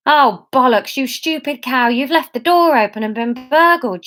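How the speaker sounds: high, loud panic; alarmed. Acted. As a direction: panic at the open door. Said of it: "she thought in alarm".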